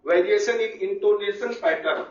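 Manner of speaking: each word of "Variation in intonation pattern" spoken very slowly and spaced out; slow dictation. Shown as a demonstration. Teacher dictating a heading to the class, very slowly. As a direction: dictate the heading slowly so students can write it down. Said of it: "intonation means आवाज का उतार चढ़ाव".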